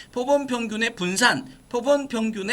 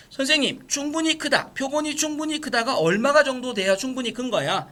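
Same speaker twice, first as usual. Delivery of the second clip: lightly voiced student, pitched higher; higher-pitched mock query to the teacher; imitated student question; 4 semitones higher than usual. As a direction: put on a mild questioning pupil voice.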